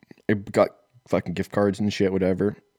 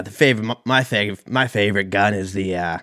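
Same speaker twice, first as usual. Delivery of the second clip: lightly put-on Australian accent; mock Australian accent. Podcaster testing whether he sounds foreign, mock Australian accent. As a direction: try the words out in a rough Australian accent. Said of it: "sound like I'm from fucking Australia".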